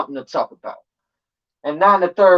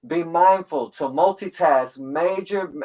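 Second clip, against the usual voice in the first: tipsy stumble; slower than usual. Real, not acted. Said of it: "I'm a little tipsy right now".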